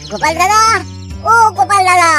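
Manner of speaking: calling out. Acted. Messenger calling from outside house.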